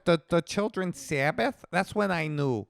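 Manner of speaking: hammed-up old Jewish accent. Host explains when he knew, old Jewish voice. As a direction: raise the pitch into an old Jewish voice. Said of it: "now you sound like an old Jew".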